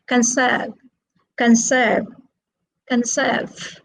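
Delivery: "conserve" with the weight on SERVE; stress on second syllable. Shown as a demonstration. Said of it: "It is on the second syllable".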